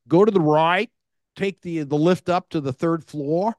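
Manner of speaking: put-on a loose, not very good Australian accent from the desk clerk. Quoting the Melbourne front desk clerk in a weak Australian accent. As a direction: imitate the Australian hotel clerk, half-hearted. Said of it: "I'm trying to do my Australian accent".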